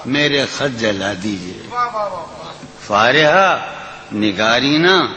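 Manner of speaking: lilting, sung-through recitation of a ghazal; poetry recitation. Acted. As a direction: recite it like at a mushaira. Recites a nazm.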